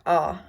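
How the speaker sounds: "ah" as in father; open, unrounded "ah"; script A vowel. Shown as a demonstration. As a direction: say "ah" like the vowel in bond. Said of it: "more of a A H sound".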